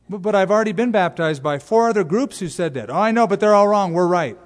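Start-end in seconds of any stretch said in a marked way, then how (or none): 2.9-4.4 put-on Southern accent. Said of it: "why do I always do a Southern accent?".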